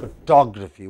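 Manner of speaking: "Photography" with the weight on "TOG"; stress on second syllable. Shown as a demonstration. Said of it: "three different kinds of stresses".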